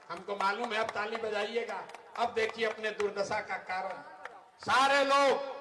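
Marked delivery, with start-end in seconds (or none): 4.6-5.5 high, loud call to the crowd. Real, not acted. Speaker calling the whole crowd to listen, loud. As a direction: summon everyone's attention.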